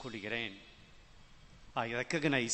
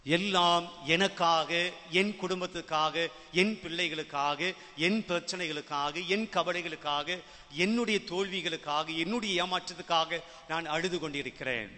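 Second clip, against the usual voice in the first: emphatic preaching list; 4 semitones higher, 4 dB louder than usual. Acted. Preacher lists selfish reasons for crying.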